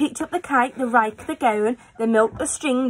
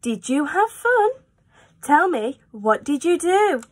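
mother asking; 5 semitones higher than usual. Acted. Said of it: "she said to us".

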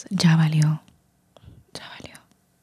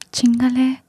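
higher, louder half-voiced Chíngale; mock cussing out; 5 semitones higher, 4 dB louder than usual. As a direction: snap Chíngale out as a cheeky jab. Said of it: "no debería haber dicho eso".

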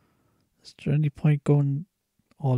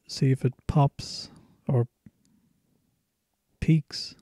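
whispered. Shown as a demonstration. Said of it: "If I can whisper".

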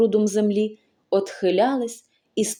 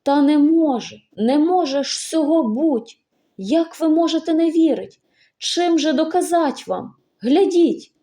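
desperate cry; 6 semitones higher than usual. A narrator's reading. Stranger to the crowd that doubts him, a high desperate cry. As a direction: plead with the crowd at full voice. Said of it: "і закричав".

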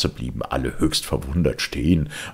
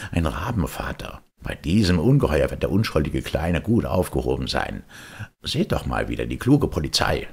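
spiteful mockery. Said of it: "spöttelten boshaft".

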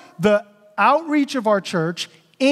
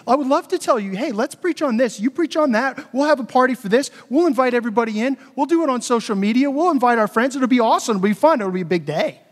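higher, brisk list of ideas; enthusiastic team member; 4 semitones higher than usual. Acted. Pastor voicing a dream team pitching ideas, enthusiastic. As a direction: bubble over with plans, one after another.

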